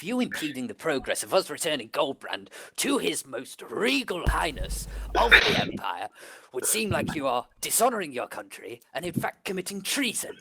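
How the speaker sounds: a hint of formal, officious reproach; lightly acted lofty speech to a guard; lightly voiced pompous captain. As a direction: lecture like a mildly pompous officer.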